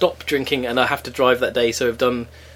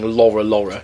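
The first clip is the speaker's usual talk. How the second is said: a singer's voice; 6 semitones lower than usual. Retold or imitated. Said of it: "listen to her saying".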